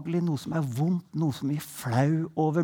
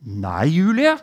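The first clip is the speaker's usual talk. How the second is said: stricter; 2 semitones lower, 4 dB louder than usual. Retold or imitated. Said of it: "jeg prøvde litt stre".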